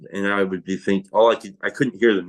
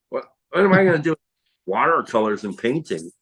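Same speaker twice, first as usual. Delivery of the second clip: retold bafflement; 4 semitones higher, faster than usual. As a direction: draw out the question, mildly baffled. Retold baffled reply to the gift.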